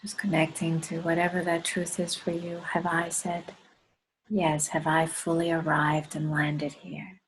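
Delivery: measured reflection, spaced out in short phrases; guided meditation. Acted. Leader asks the group to connect to the heart, guided meditation. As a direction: let each phrase settle before the next.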